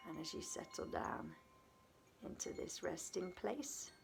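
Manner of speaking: unhurried meditation guidance with long pauses between phrases; guided meditation. Acted. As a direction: settle the listener gently into rest, leaving space after each phrase.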